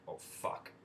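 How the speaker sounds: a breathless whispered oh no; whispered curse. Retold or imitated. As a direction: mutter it so nobody hears. Muttering dread at being stopped.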